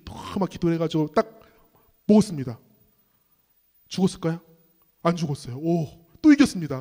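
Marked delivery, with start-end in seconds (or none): none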